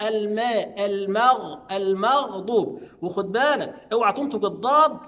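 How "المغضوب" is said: المغضوب moving to a heavy emphatic dad, slow; light to heavy. Shown as a demonstration. Teacher drilling the light-to-heavy shift. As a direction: stretch المغضوب. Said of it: "من المرقق للمفخم".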